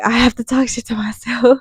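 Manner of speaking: whispered "I have to talk shit to myself". Real, not acted. Confessing her habit to viewers, whispered. Repeats line, then whispers it.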